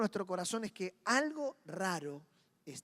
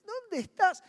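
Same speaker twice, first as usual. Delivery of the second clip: anguished call; 11 semitones higher, 6 dB louder, slower than usual. Acted. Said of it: "Ah, dice".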